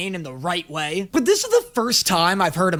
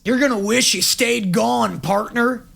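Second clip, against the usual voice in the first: put-on Texan accent. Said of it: "eighteen hundreds Texan accent".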